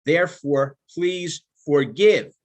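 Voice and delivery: slow, weighty "forgive" after "please"; slow down and lean on "forgive"; stress on forgive. Shown as a demonstration. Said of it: "I emphasize the word forgive".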